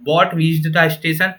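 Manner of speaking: very slow, "Bought" as the question word; slow test reading. Shown as a demonstration. Teacher testing the noun slowly. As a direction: read it out slowly. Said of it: "अब मैं आपकी गलत कर देता हूँ ये proof".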